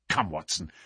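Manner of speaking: quietly urging Watson on; hushed urging. Acted. Hushed urging while hiding.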